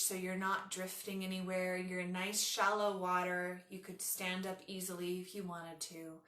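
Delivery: unhurried yoga nidra guidance with long pauses; guided meditation. Acted. Leads a guided relaxation.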